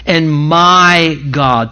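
"my" held long and firm before "God"; stress on MY. Shown as a demonstration. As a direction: lean on "my" and stretch it out. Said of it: "The emphasis is on the first word".

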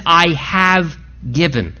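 "I have given" slow, pausing after "have"; stress on "have". Shown as a demonstration. Preacher repeats God's past-tense promise, slow deliberate stress on "have". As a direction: hold "have" before releasing "given". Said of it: "But yet God says".

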